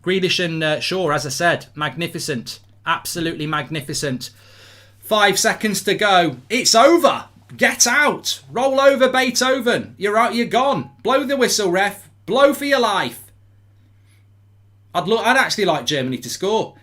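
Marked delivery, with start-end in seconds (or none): 5.0-13.2 cuenta atrás eufórica. Real, not acted. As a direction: urge the referee to end it. Counting down to final whistle.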